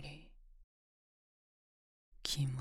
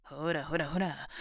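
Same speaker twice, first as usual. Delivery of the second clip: sneering, taunting push; impatient domineering taunt; mocking scold; 4 dB louder than usual. Scolding him for being quiet.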